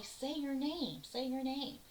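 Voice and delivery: lightly voiced bossy letter giving orders; mock bossy command. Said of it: "the bossy E tells I".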